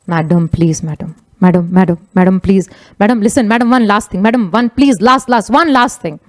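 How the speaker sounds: imitated insistent begging, words tumbling over each other; pleading. Gardener begging madam for one last word, pleading. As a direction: plead repeatedly to keep the listener from leaving.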